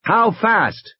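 urgently demanding an answer; insistent repeat. Acted. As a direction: push the question harder, pitched high. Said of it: "Grant said again".

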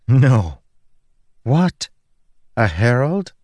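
high, startled disbelief; incredulous denial. A narrator's reading. Woman taken for a Herald, incredulous. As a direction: jump up in pitch, astonished at the idea.

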